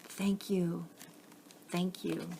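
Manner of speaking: soft breathy whisper, barely voiced; whispered thanks. A narrator's reading. Man whispers thanks to the sea, hushed whisper. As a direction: whisper your thanks as the boat drifts off. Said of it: "he whispered".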